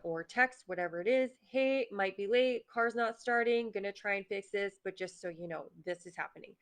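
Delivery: steady, collected, unhurried; calm problem solving. Pretend. Driver taking a breath before texting work, calm and steady. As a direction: talk yourself down calmly. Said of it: "Whereas you can be like".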